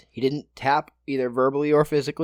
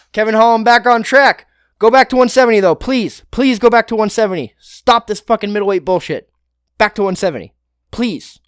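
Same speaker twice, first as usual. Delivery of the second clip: higher, louder, begging shout; loud, high, pleading fan shout; 6 semitones higher, 9 dB louder than usual. Real, not acted. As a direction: yell it like you're begging your favourite fighter. Begging fighter to change division.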